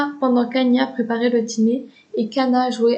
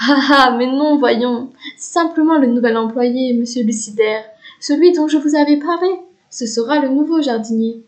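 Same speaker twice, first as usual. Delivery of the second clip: laughing reassurance; 3 dB louder than usual. Acted. Mother laughs off the fear.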